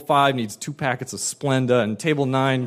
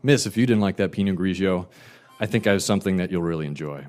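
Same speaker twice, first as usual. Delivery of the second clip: smooth sales pitch; 6 semitones lower, faster than usual. Retold or imitated. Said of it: "So I said".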